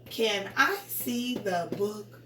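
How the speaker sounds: slow question rising to BOOK; voice goes up. Shown as a demonstration. Teacher leading pupils reading along, slow rising question. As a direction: draw it out and lift BOOK upward. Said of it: "your voice goes up".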